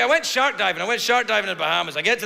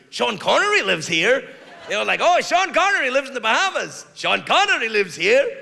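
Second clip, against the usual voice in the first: lightly put-on Bahamian accent, proud; a hint of a Bahamian local bragging; 4 semitones higher than usual. Bahamian local bragging about Sean Connery to tourists, light Bahamian accent. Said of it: "What accent is that, Craig?".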